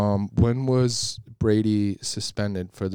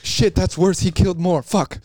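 mock dismay; 8 semitones higher, 6 dB louder than usual. Acted panicked jersey owner.

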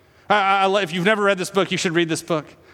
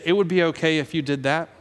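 demonic whisper; 3 semitones lower, 3 dB quieter than usual. Acted. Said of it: "they come in and they say".

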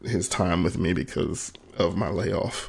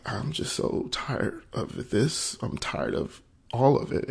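higher, drawn-out weary confession; really choking up while retelling it; close to tears; 4 semitones higher, slower than usual. Real, not acted. Worn-out father confides in his friend, near tears. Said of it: "it's gonna make me cry".

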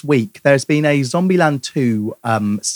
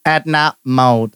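Edna Mode impression; much slower than usual. Shown as a demonstration. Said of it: "can you do your best impression of Edna Mode".

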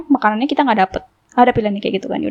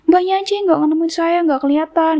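higher-pitched imitation of a defensive driver; retold defensive blame; 7 semitones higher than usual. Driver blames the customer for missing her, imitated defensiveness. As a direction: push the blame back, voice raised in pitch.

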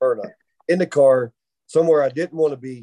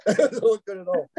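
laughing; 4 semitones higher than usual. Real, not acted. Repeats punchline, breaks into laughter.

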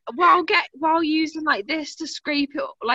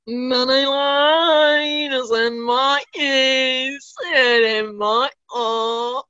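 hint of a drunk uncle singing; slow slurred sing-along, lightly done; much slower than usual. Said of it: "I sound like the drunk uncle at a family function".

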